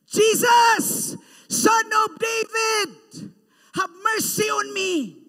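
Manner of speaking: high desperate shouting cry. Acted. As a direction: cry out loud for mercy from the roadside. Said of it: "he began to shout".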